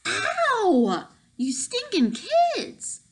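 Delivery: high, loud pained yelp then shout; angry yelp. Acted. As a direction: yelp and snarl at the kids. Caught kid, angry outburst.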